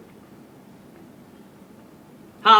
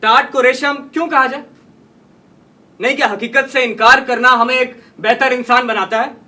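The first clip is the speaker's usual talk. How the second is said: indignant challenge; 3 semitones higher, 4 dB louder than usual. Acted. Writer challenging those who would deny reality, indignant. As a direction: challenge them with indignant force.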